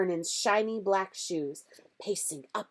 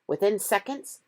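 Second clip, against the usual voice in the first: ordinary delivery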